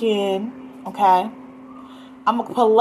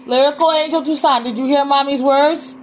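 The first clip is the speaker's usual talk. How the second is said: raised mom voice, higher; 5 semitones higher, 3 dB louder than usual. Real, not acted. Mother calling child.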